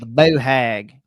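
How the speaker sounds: slow, drawn-out southern boo hag; southern flair, slow and drawn out; southern accent. Shown as a demonstration. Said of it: "we're saying it with a southern accent".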